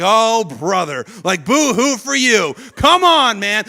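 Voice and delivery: rising into a loud mocking groan; sarcastic brush-off. A listener mocking a bragging friend, sarcastic and loud.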